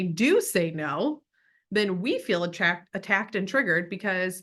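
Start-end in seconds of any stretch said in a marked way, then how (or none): none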